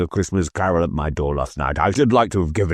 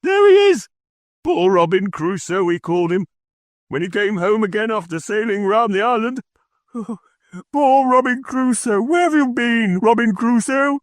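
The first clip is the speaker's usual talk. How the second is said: very high, eager, fast storybook voice; childlike excitement. A narrator's reading. Scrooge reliving Robin Crusoe, very high childlike glee. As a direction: gush like a delighted child. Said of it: "extraordinary voice between laughing and crying".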